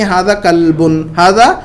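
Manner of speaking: slow, careful drill reading; slow classroom demonstration; slow model reading. Shown as a demonstration. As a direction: read slowly so every sound is clear. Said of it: "تو ہم اسے کہیں گے".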